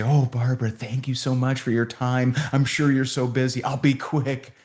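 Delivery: fawning and apologetic, pitched a touch up. Retold or imitated. Typical rep thanking a busy prospect, fawning apology. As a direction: imitate a grateful rep anxious not to impose. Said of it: "almost like this apologetic".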